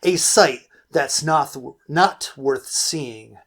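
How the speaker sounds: measured, deliberate poem reading; dramatic spoken verse; poem recitation. Acted. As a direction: recite each line with weight, letting endings fall.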